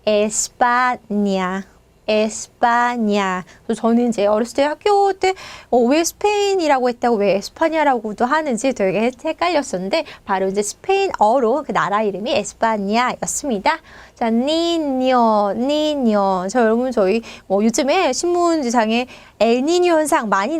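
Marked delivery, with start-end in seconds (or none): 0.0-3.4 에스파냐 slow and lower, syllable by syllable with ny; Spanish pronunciation. Shown as a demonstration. Teacher giving the country's Spanish name, 에스파냐 slowly drawn out. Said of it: "스페인어로 하면". 14.3-16.5 니뇨 drawn out with a palatal nyo; ñ pronunciation. Shown as a demonstration. Teacher modelling a word for students, 니뇨 said slowly with ny. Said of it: "이제 이렇게 발음이 됩니다".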